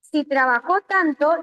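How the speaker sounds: "trabajó" stressed on the last syllable, tra-ba-JÓ; stress on final JÓ. Shown as a demonstration. Teacher repeats the changed sentence, stressing tra-ba-JÓ. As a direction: put the accent on the final Ó of "trabajó". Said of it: "Si yo le pongo la tilde en la O".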